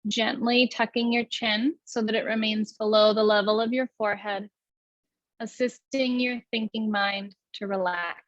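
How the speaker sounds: even, unhurried meditation guidance; guided meditation. Acted. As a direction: lead the breath calmly, with long pauses.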